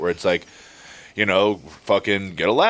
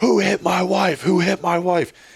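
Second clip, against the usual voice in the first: high-pitched, furious bloody-murder yelling; 10 semitones higher than usual. Retelling a man running down the street toward him, retelling a bloody-murder yell. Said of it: "yelling full bloody murder".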